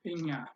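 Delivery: እኛ with a Spanish ñ sound, "enya"; pronunciation demo. Shown as a demonstration. Teacher models the word for "we" for Amharic learners, pronunciation demo. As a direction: say እኛ as "en-ya", g and n blended. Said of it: "you pronounce it like".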